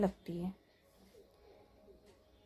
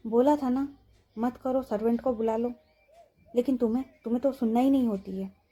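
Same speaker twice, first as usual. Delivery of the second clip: scolding; 4 dB louder than usual. Acted. Mahira scolds injured Sanjana.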